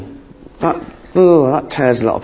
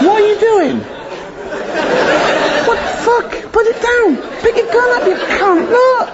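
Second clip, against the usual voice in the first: enraged soldier shout. Acted. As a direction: bellow it like a furious trench sergeant. Soldier yelling at the poet.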